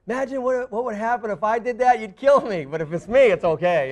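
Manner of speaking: a hint of a scolding wife; imitating wife. Wife scolding husband, lightly voiced. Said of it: "my wife, Angela".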